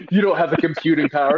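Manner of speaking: cold Mother voice. Retold or imitated. Fan imitates cruel Mother belittling her android, high mocking voice. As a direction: sneer it down at the android, a bit hammed. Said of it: "And then she's like".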